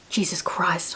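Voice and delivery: breathy whispered mutter. Retold or imitated. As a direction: mutter it under your breath while typing. Whispered muttering while typing.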